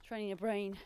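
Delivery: talking mid-run; a bit breathless while running; while jogging. Real, not acted. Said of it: "time to run again".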